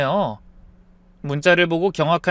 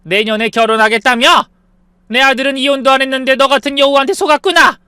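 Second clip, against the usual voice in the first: high, loud furious yell; mother-in-law yells at her son's mistress; shout; 6 semitones higher, 6 dB louder than usual. Acted. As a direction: scream at the mistress in fury. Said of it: "소리쳤죠".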